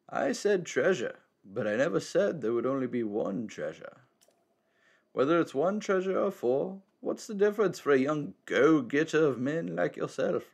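lightly voiced wise old man; a hint of a cryptic elder.

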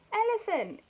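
high, loud storybook reveal; dramatic reveal. A narrator's reading. Narrator as Cheetah hits Elephant, dramatic exclamation. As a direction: land the name like a collision.

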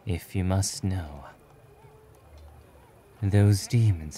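soft, measured reluctant hero; reserved hero explaining. Acted. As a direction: recount it quietly and matter-of-factly.

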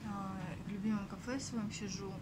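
hushed, early-morning café talk; quiet voice. Real, not acted. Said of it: "говорю тихо". (тихий голос)

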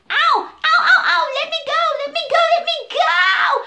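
loud, high ow ow let me go; a little elephant panicking in the jaws; elephant yelping in pain. Acted. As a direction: elephant shrieking as the crocodile pulls. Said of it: "screamed and cried and carried on".

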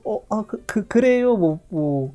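stammering, awkwardly polite; imitated embarrassed backpedalling; retold flustered reply. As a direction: stumble through a diplomatic answer, trying to recover. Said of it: "너무 당황스러워서".

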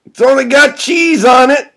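high, loud call; yelled warning at high pitch; shouting. Acted. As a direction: holler it over to a friend. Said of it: "shouts Doug".

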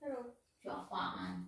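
slow, drawn-out mocking repeat of Nyuci apaan; mocking echo. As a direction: parrot his question back slowly to tease him. Wife echoes husband's question mockingly.

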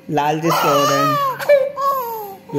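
high, slow sing-song hush. Acted. Hushing the noisy child so the deity can sleep, high and slow. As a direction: stretch it out high like a lullaby to hush them.

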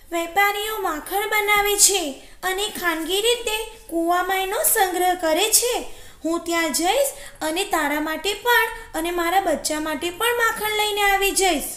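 high-pitched jackal character voice; little storybook trickster; crafty jackal explaining. Acted. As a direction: spin the plan in a high, persuasive voice.

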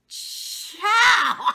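high, loud burst of laughter; cracking up. Real, not acted. Laughing at Tiffany's gall, high cackling burst. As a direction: break into a laugh you can't hold in.

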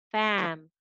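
"fam" with a full, unreduced "a"; strong vowel. Shown as a demonstration. Teacher showing students the strong syllable, "fam" with full a. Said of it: "is always going to be a".

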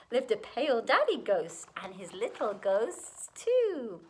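put-on lilting rhymed storytelling for children; animated children's story reading; story narration. A narrator's reading. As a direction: read a picture book aloud in rhythm. Reads a rhyming picture book aloud.

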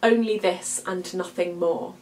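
a slightly hushed, even reading of Poe; poem recital. Acted. Teacher reciting The Raven to show internal rhyme, hushed and even.

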